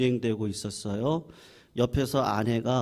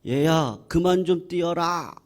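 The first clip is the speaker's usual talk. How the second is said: higher-pitched mock scolding yell; angry father shouting; 4 semitones higher, 4 dB louder than usual. Father tells his restless child to stop running, imitated angry yell. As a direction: imitate an exasperated dad's outburst. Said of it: "버럭 화를 내면서 소리를".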